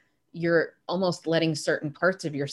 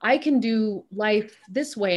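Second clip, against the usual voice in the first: imitating frugal women; 4 semitones higher than usual. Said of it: "It's like women who say".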